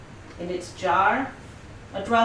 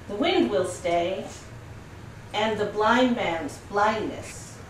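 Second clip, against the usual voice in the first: measured poem reading in short phrases; unhurried recital with space round every image; poetry reading; 2 semitones higher than usual. Acted. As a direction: read serious verse, pausing after each line. Reads the poem in translation.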